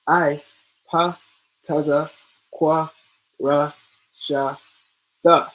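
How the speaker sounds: each letter sounded out with an ah; reciting the alphabet. Shown as a demonstration. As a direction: call out each letter clearly, like a teacher. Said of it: "It's the same here".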